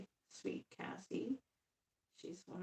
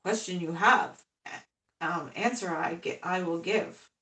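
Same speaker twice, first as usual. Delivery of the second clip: Yoda voice; 6 dB louder than usual. Retold or imitated. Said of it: "he goes".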